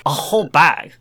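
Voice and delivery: reading in an attempted British accent. Reader tells of crisps and orange soda, put-on British accent. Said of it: "You've been doing this in British accent".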